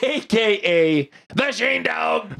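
hype intro. Acted.

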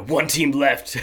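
lightly hammed-up British announcer; bad British accent. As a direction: ham up a dirty British voice calling out. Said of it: "this accent that's really bad accent".

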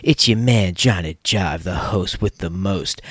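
smooth radio host intro; grand entrance announcement. Acted. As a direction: announce yourself like a lounge DJ.

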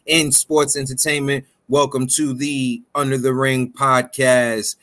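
booming ringmaster announcement; big-top ringmaster call to the crowd. Acted. Podcast intro announcer call.

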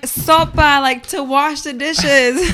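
younger self insisting, breaking into a laugh; laughing through it. Retold or imitated. To her grandma, insisting through a laugh. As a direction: plead the word, then laugh. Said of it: "And I'm like".

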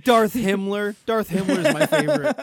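mock fanboy. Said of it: "He's like".

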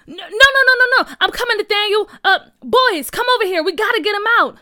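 high, loud urgent rallying; frantic yell to the boys. A narrator's reading. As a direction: shout orders in a rescue. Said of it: "Junior yelled".

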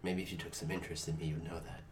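hurt, low, mopey murmur. Acted. Hurt secretary sulking.

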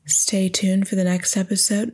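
a light take on a smooth podcast host. Shown as a demonstration. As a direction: try out a hushed radio-host outro. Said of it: "my podcast voice".

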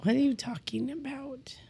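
talking through a burp; burping the words. Real, not acted. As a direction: let a burp carry the words. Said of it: "that was a big burp".

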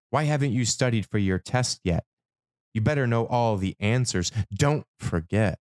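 quick, scolding parent voice; nagging parent. Pretend. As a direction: nag like a strict parent.

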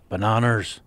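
Liam Neeson. Retold or imitated. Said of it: "as Liam Neeson".

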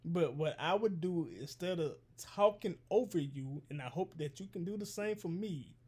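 slow, measured robot voice. Real, not acted. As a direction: speak stiffly like a robot. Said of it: "Why are you talking like a robot".

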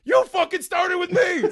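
high, slow, shouted accusation; retold furious shout. Man reliving yelling at an old lady, slow angry shout. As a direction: drag it out in outrage.

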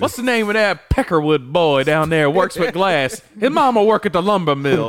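hint of a movie plantation boss; Big Daddy. Friend quoting Django to friends, Big Daddy impression. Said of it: "he's got the voice down".

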